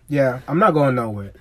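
ordinary talk

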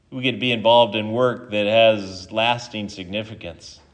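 measured prayer with long pauses; closing prayer. Real, not acted. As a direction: address God simply, pausing between phrases. Leads closing prayer after sermon.

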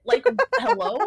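indignant high hello; high offended hello. Retold or imitated. Acting out offended self.

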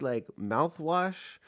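slow, lilting question about mouthwash; drawn-out question. Retold or imitated. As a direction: stretch it out, genuinely asking. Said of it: "she's like".

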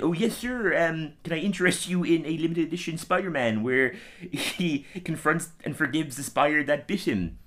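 eager salesman; fawning shopkeeper. Retold or imitated. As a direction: grovel to the rich customer. Comic guy fawning.

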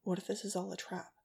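soft, barely audible whisper. Acted. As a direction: hush it so no one hears. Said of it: "he whispered, barely audible".

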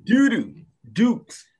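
high, loud silly outburst; silly high exclaim. Real, not acted. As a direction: squeal it like a joke. Jokey insult.

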